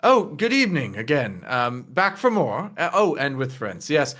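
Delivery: a touch of obliging host; mildly formal welcome, lifting at the final offer; lightly voiced attentive server. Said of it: "this guy goes".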